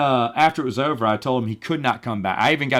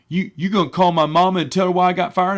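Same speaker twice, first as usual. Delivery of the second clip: higher-pitched imitation of an aggrieved worker; mock-indignant plea; fired employee; 7 semitones higher, 4 dB louder than usual. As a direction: whine a demand like a sacked grown-up kid. Fired man's demand, acted out.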